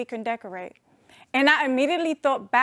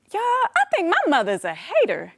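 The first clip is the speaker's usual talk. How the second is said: laughing; 5 semitones higher than usual. Real, not acted. Joking punchline about mom.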